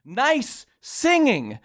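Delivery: put-on slow, deliberate quote of a kid; lightly voiced child, each word set apart; child's compliment. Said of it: "A child in front of me".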